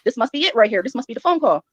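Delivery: ordinary talk, nothing marked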